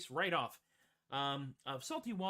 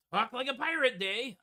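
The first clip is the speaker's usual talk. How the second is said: loud, higher, playful proclamation; hearty announcement; 6 semitones higher, 7 dB louder than usual. Pretend. Announcing the pirate day to listeners, hearty and loud.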